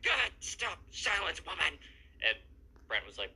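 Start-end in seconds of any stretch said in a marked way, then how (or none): 0.0-1.7 higher and louder hammed-up command; mock angry outburst. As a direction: bark it like a pompous little tyrant. Emo kid snaps at Emily.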